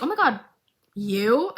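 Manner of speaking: laughing disbelief. Retold or imitated. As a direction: laugh at the news. Caitlin hears Jace's news.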